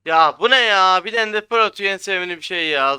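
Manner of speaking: real gamer rage shout; angry shout. Real, not acted. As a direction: blow up at the screen in rage. Player raging at enemy's ender pearl.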